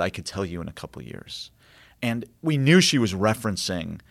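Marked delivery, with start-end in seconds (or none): 0.0-1.5 muttered under breath. Retold or imitated. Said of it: "under her breath, she muttered".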